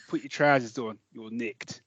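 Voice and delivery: mock London copper making an arrest; hammed-up London accent, dropping away at the end; fake London accent. Shown as a demonstration. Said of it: "when I'm doing my fake London accent".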